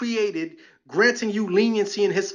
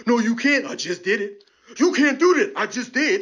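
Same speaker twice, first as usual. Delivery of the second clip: smug cop comeback. Retold or imitated. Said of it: "the cops just wanna say back".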